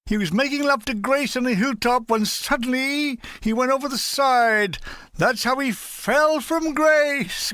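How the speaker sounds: a touch of W C Fields telling a pun; W C Fields impression. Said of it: "I continued in the same voice".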